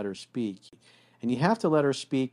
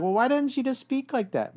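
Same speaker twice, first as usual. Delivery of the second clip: mock exasperated guy. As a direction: throw up your hands, puzzled man. Exasperated man quoted.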